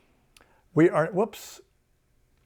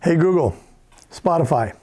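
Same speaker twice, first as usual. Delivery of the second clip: voice command; 4 dB louder than usual. Shown as a demonstration. Commanding the voice assistant.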